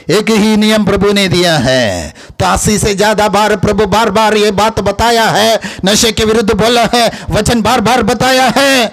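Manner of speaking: preacher hammering a repeated point; emphatic preaching. Real, not acted. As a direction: press the point on the congregation, pitch climbing.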